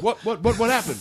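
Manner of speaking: high-pitched, startled questions; mock bewilderment. Mike asks after knocking a comic out, mock bewildered. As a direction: imitate someone startled and clueless.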